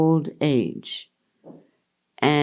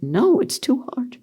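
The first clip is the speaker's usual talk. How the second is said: laughing; 9 semitones higher than usual. Real, not acted. Laughs at own not making list.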